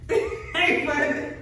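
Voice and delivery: loud laughing hello; laughing greeting. Real, not acted. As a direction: burst in laughing. Greeting viewers, laughing loudly.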